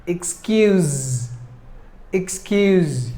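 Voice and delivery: "Excuse" ending in a buzzed z. Shown as a demonstration. Teacher showing learners the letter's sound, "Excuse" with final z. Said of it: "pronounce that letter S like the Z".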